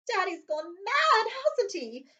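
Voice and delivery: dull Dudley. Acted. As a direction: drag it out like a bored child. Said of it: "Dudley asked Petunia dully".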